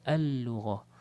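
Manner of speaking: "Al-Lughah" with both Ls merged into one held L; straight into lam. Shown as a demonstration. Teacher explaining two lams, "Al-Lughah" with merged L. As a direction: run A into a long L in "Al-Lughah". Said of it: "jadi masuk terus".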